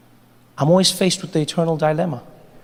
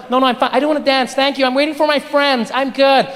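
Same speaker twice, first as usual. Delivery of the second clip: uneasy woman; 5 semitones higher than usual. Acted. Woman refusing again.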